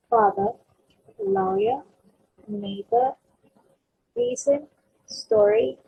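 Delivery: father, lawyer, neighbor, reason, story, each punched on its opening syllable; first-syllable stress. Shown as a demonstration. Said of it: "we're stressing on the first syllable".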